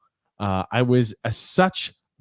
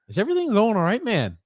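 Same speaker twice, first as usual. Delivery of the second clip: gentle concern; 7 semitones higher than usual. Shown as a demonstration. To a smelly coworker, gently caring. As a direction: ask kindly, man to man. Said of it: "your right as a coworker and a friend to say".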